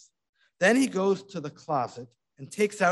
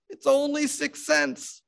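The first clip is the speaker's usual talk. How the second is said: high, slow coaxing voice; peasant reassuring; 12 semitones higher than usual. A narrator's reading. Disguised rabbi telling widow it is cheap, coaxing. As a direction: coax her gently as a peasant.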